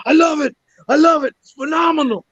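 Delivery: high-pitched, gushing impression of a thrilled director; excited high-pitched mock raving; imitating excited approval. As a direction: act out someone utterly won over. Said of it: "so excited".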